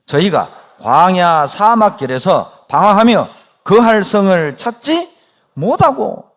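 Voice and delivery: slow, loud unison reading of Scripture; scripture reading aloud. Real, not acted. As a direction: read it out slowly together with the congregation. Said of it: "같이 읽습니다".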